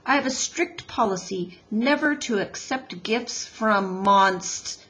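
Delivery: lightly voiced stubborn beaver, firm refusal; a hint of a stiff, grumpy husband; Mister Beaver.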